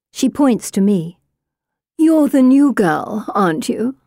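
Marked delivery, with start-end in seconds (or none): 2.0-3.9 condescending. A narrator's reading. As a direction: look down on her. Blonde sneers at newcomer.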